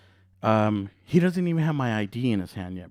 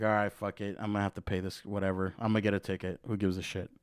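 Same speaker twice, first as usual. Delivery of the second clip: low, quiet inner grumble; resigned muttering; 5 semitones lower, 6 dB quieter, faster than usual. Retold or imitated. Driver to himself about to get a ticket, resigned mutter. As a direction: mutter it to yourself, giving up.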